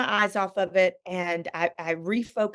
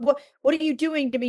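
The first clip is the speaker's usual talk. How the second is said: mock angry plea; 5 semitones higher, faster than usual. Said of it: "I shook my fist at God".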